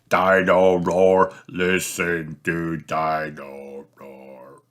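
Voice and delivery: slowing and fading toy chant; winding down. Acted. Toy singing as its batteries die, slowing and fading. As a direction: let it run down like flat batteries.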